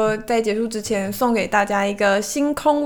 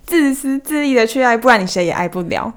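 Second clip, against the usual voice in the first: reading a quote aloud. Real, not acted. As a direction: present "自私自利的去爱，不然你谁也爱不了" as a quotation. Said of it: "那我要念咯".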